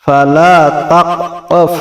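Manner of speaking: guttural হ in তাকফ; throat sound. Shown as a demonstration. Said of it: "গলার ভিতর থেকে উচ্চারণ হবে".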